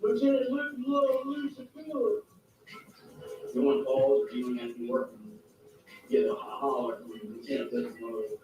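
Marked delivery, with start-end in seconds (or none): 0.0-2.2 hollered call. Retold or imitated. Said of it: "I get hollered".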